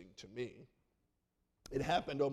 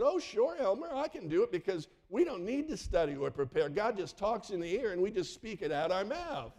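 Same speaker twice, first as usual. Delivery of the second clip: sarcastic agreement; 5 semitones higher, 3 dB louder than usual. Retold or imitated. Mock-cheerful agreement to teach unprepared.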